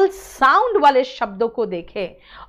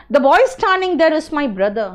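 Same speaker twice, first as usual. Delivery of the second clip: slow example reading; 4 semitones higher, 4 dB louder, much slower than usual. Shown as a demonstration. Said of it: "example sentence read".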